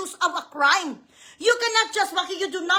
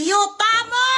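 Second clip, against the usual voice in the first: loud furious swear word shouted out; loud angry curse; 3 semitones higher, 5 dB louder, slower than usual. Real, not acted. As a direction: spit the curse out in a burst of rage. Angry outburst at a senator.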